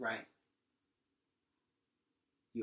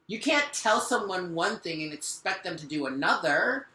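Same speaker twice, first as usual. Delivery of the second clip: frustrated; 6 semitones higher, 5 dB louder than usual. Real, not acted. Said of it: "I'm getting frustrated".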